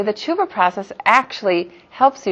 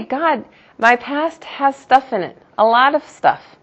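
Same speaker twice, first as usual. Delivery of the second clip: pleading prayer; 4 semitones higher than usual. Pretend.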